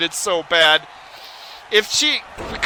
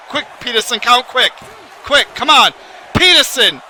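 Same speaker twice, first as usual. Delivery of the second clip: loud, higher urging the ref to hurry; urgent shout; 4 semitones higher, 3 dB louder than usual. Real, not acted. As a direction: yell at the referee to count faster. Urging referee to count fast.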